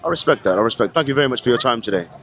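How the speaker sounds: put-on London accent, a bit cheeky; British accent put on by an American; fake London accent. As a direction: play a Londoner doing a street interview. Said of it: "I do the accent 'cause it's a fun thing to do".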